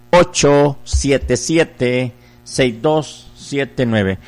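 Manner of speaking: slow, spaced-out digits for callers to dial; slow number dictation. Real, not acted. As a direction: spell out the digits very slowly.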